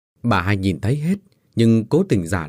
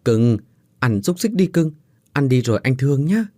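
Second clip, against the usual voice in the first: lightly raised, tender coaxing; cooing to a puppy; 2 semitones higher than usual. Acted. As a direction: coax the puppy sweetly, a touch playful. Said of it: "nói nựng".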